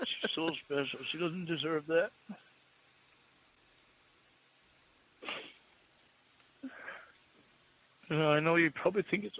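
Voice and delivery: tearful words spoken through crying. Talking about someone they care for deeply, crying while talking. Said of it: "Sorry, I'm crying".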